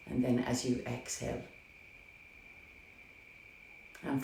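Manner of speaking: gentle meditation guide, unhurried with long pauses; guided meditation. Acted. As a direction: ease listeners into their breath, softly and calmly. Leads guided breathing meditation.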